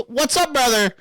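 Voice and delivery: lightly voiced streamer kid; imitating streamer catchphrase. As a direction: do the kid's hyped catchphrase. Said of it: "He goes".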